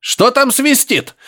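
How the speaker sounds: high, slow, distant voice through a speaker; professor on the radio. A narrator's reading. Professor calling through the radio, high and drawn out. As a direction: crackly voice from a receiver.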